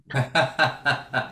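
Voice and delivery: low, rolling chuckle; amused laugh at the anecdote; laughter. Real, not acted. Reacting to friend's blunt church question, laughing.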